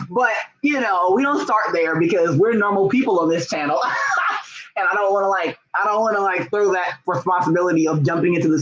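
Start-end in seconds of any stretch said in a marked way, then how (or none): 3.9-4.7 laugh. Real, not acted. Laughing at own joke.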